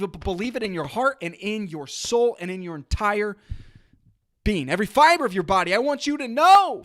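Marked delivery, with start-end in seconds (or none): 4.7-5.7 rushed, louder push; loud and fast. Real, not acted. Host pushing listeners, fast and louder. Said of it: "you might feel like I'm yelling at you". 5.7-6.8 high, loud urging shout; near yell. Real, not acted. Podcast host urging his listener, loud near yell. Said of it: "you might feel like I'm yelling at you".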